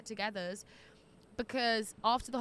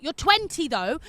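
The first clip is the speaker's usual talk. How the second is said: higher, louder mock disbelief; teasing disbelief; 3 semitones higher, 8 dB louder than usual. Real, not acted. Host teasing a twenty-year-old reader, mock disbelief. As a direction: rib her about her age.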